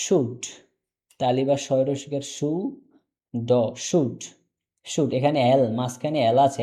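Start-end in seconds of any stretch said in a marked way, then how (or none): 0.1-0.4 "should" said alone with a silent L; pronunciation model. Shown as a demonstration. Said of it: "সবাই এটা কয়েকবার উচ্চারণ করেন". 2.2-4.2 "should" broken into "সু" and "ড", then joined; syllable-by-syllable pronunciation. Shown as a demonstration. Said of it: "এল এর কোনো উচ্চারণ হবে না". 4.9-5.1 "should" said with no L sound; silent L. Shown as a demonstration. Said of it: "এল এর কোনো উচ্চারণ হবে না".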